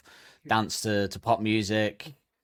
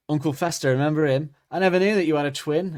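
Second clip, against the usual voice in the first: a touch louder, punchy bully delivery; smug bully taunt; 4 semitones higher, 4 dB louder than usual. Retold or imitated. School bully proudly insulting her in the corridor, a bit louder. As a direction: land it like a proud zinger. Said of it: "the school bully's like".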